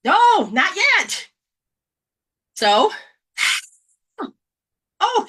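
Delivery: put-on high, slow whiny baby voice; slow baby whine. Infant who can't sign yet, slow high whine. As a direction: drag it out like a fussing infant.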